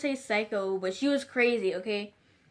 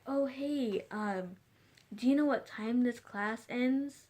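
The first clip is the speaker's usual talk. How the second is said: soft, lightly put-on sweetness; fake shy voice; 6 dB quieter, slower than usual. Shown as a demonstration. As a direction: timidly ask a stranger in a slightly fake voice. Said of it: "Like, something like that".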